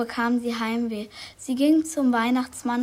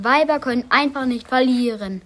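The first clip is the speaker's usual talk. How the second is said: grölend; 5 dB louder than usual. Acted. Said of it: "grinste und grölte".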